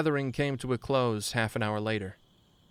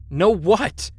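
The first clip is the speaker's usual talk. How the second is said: much higher, loud panicked cry; frightened cry; 10 semitones higher, 12 dB louder than usual. A narrator's reading. Terrified friend slammed against wall, crying out. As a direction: yelp it in terror. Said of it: "I cried".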